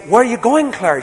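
high, light imitation of a three-year-old; lightly voiced small child asking; little boy. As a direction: mimic a curious toddler. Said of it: "he say".

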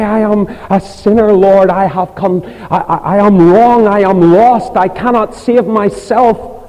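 high, loud pleading cry to the Lord; preacher voicing a repentant sinner's prayer, high and loud. Shown as a demonstration. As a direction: cry it out as a broken sinner begging God.

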